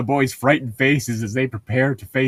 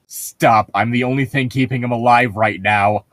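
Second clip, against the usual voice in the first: yelling; 4 dB louder than usual. Acted. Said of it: "I yells".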